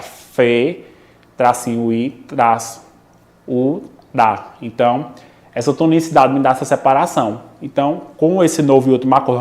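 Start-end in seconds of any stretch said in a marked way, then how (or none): 0.0-4.5 "fe, tracinho I, traço U, da" split into separate pieces with pauses; syllable by syllable. Shown as a demonstration. Teacher splitting feiura for students, syllable by syllable. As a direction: break the word feiura apart, pausing after "fe" and each hyphen. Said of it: "Se eu separar a palavra feiura".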